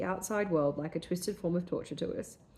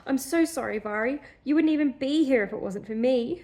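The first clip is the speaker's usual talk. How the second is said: murmured brokenly; 6 semitones higher, 4 dB louder than usual. Acted. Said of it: "she murmured brokenly".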